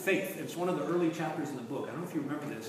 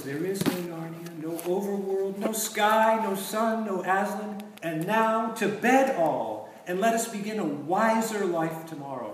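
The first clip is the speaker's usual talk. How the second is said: rising, louder enchanting witch; 3 semitones higher, 5 dB louder, slower than usual. Retold or imitated. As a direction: lull them like a wicked queen. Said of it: "So she finally says".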